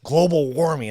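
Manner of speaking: hammed-up earnest show host; eager TV host. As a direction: play a pushy host offering help. Acting out the sketch host.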